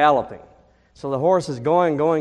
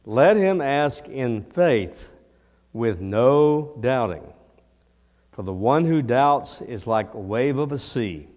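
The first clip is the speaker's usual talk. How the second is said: scripture reading; 3 dB louder than usual. Acted. Pastor reading James to congregation, measured. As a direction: read the verses with weight.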